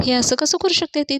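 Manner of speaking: father reading the letter, angrily asking how she could; angry father. Retold or imitated. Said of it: "अवनीचे वडील फार चिडतात".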